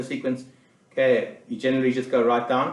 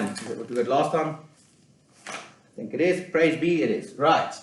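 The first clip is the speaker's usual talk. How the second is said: pen in mouth. Real, not acted. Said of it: "I just put my pen in my mouth".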